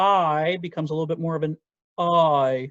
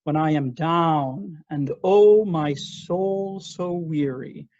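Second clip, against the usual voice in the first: down leaned on, when I am sung light and quick; stress on down; much slower than usual. Shown as a demonstration. Teacher shows which word matters. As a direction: sing into down. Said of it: "The word down is the important word".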